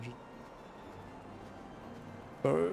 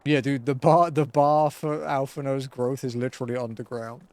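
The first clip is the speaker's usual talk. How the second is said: excited; 4 dB louder than usual. Real, not acted. Loud joking rant about Alphinaud.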